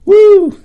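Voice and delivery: high, loud playful "woo"; excited whoop. Acted. Presenter explaining arousal and expansion, playful excited whoop. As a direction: let out a big mock-climactic whoop.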